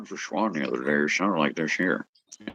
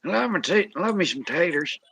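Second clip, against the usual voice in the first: silly high voice; 11 semitones higher than usual. Pretend. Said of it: "when I do that voice".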